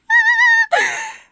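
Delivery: very high, loud squealing laugh; delighted shriek laugh. Real, not acted. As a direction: burst out laughing with glee. Delighted about the patch.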